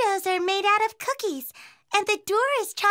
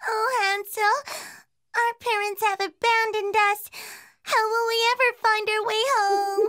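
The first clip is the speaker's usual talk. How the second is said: tearful plea, voice catching with sobs; crying. Acted. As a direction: cry out to your brother, lost and scared. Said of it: "Gretel started to cry".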